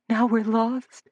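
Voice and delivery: tearful, hushed despair; sobbing. A narrator's reading. Frightened girl sobs in Suzanne's arms, tearful. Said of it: "sobbed Lydia".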